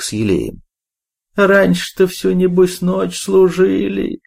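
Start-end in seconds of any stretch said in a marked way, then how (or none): 1.4-4.2 put-on high, slow toothless old woman mumble; gumming soft food. A narrator's reading. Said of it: "прошамкала недовольная Шура". (шамкающая старуха, высоким голосом)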